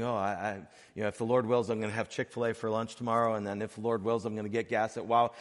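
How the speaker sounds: rattled off fast like a throwaway formula; glib mantra. Retold or imitated. Preacher mocking a churchgoer who tosses off a casual mantra. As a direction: toss it off quickly and glibly, a mock of careless piety. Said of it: "some kind of magic mantra that we say".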